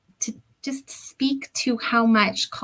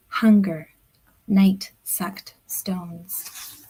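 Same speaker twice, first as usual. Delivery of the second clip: slow, measured poetry recital with long pauses; unhurried reading voice, dropping to a hush at the end; poem reading; slower than usual. Acted. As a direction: read it like a poet savouring each image. Poet reads her poem aloud.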